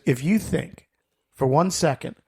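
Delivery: slow, emphatic retold warning; deliberate, mildly indignant imitation of a wife; stern refusal. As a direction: lay down the law like an incredulous wife.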